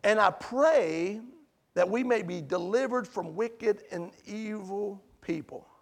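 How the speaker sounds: reading Paul's prayer. Retold or imitated. Preacher quoting Paul to the church, slow and solemn. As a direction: read Paul's words solemnly. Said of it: "And then he says this".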